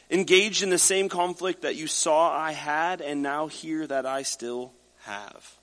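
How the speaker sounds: measured, earnest Bible reading; scripture reading. Acted. Preacher reading Philippians to the congregation, solemn. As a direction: read it out to the standing church.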